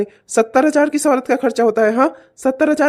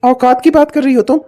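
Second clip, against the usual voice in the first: louder, challenging, stress on की; angry; 6 dB louder than usual. Acted. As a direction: fling her word back at her. Husband answers wife's taunt. (पत्नी पर भड़ककर सवाल)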